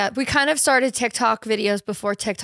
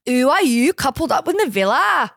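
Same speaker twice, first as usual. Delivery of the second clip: put-on Northern London accent; 2 semitones higher, 3 dB louder than usual. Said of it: "That's how she sounds".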